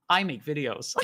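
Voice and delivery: loud mock American accent; hammed-up American accent. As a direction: announce it in a put-on American voice. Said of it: "I could be American".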